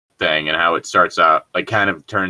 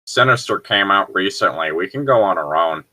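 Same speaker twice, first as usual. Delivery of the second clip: neckbeard voice. Acted. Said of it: "neckbeard voice".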